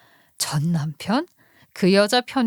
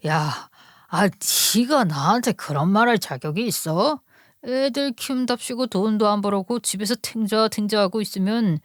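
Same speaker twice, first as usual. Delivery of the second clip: indignant husband. Acted. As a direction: turn the blame back on the wife. Husband fights back at wife. (적반하장으로 따지는 남편 목소리)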